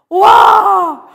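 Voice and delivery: loud, high, drawn-out wow; reenacted shock, big and drawn out; stunned exclamation. Reacts to boyfriend's ultimatum.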